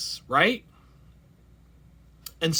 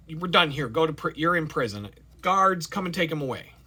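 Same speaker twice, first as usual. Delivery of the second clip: cold dismissal; 3 semitones higher, 4 dB louder than usual. Pretend. Servant orders guards.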